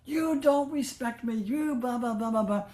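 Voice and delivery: high, slow, loud furious rant, voice strained; retold rage. Bholenath storming at Ma after the laughter, furious high rant. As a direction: rant at her like a wounded, raging man. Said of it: "went into a rage".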